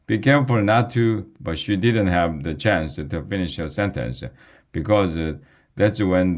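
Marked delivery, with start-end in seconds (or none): 0.1-1.3 raised warning, cut off; hollered warning. Acted. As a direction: call out a warning that gets cut short. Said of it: "hollered Miss Aker".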